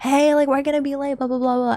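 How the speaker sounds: rushed, fast, high-pitched impatient nagging tone. Retelling how she started yelling at the speaker again, imitating her yelling. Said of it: "she started yelling again".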